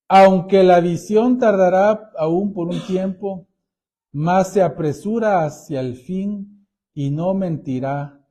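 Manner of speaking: slow, weighty reading of the verse; solemn scripture reading. Acted. Pastor reading Habakkuk to the congregation, slow and solemn. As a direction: read it out slowly, like a proclamation.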